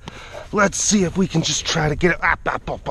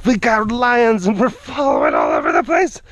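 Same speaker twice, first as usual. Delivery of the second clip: excited; 5 semitones higher than usual. Real, not acted. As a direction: burst out excitedly. Excited announcement with shout.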